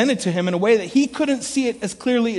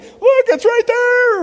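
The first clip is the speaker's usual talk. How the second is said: high, loud and slow insistence; emphatic; 7 dB louder, slower than usual. Retold or imitated. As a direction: point at the verse excitedly. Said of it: "I was like".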